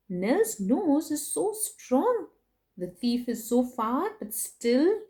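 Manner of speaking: slow, soft marvel; hushed awe. Acted. Storyteller to children, slow hushed awe.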